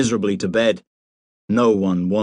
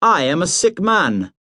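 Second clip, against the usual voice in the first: furious; 8 semitones higher than usual. A narrator's reading. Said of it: "said Hamish furiously".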